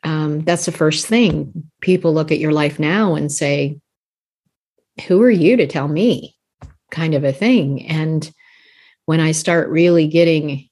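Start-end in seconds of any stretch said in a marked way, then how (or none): 5.1-6.3 retold skeptical challenge, punching the words with a lilt; mock challenge. People look at your life and doubt you, mock challenge. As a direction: imitate a doubter pushing back.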